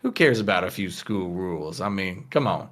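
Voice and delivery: easygoing, placating reassurance; Lucas. Acted. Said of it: "Lucas sort of puts a hand on her shoulder and says".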